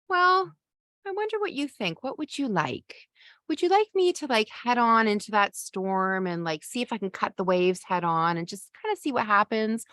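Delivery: a captain who can't decide and asks the crew; a dithering skipper asking the passengers what to do; wishy-washy captain. Acted. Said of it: "So that kind of wishy-washy".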